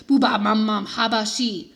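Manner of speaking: put-on slow baby babble; baby babbling. Toddler Fudge babbling in his crib at night. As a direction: babble nonsense like a sleepy toddler. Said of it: "Fudge started babbling".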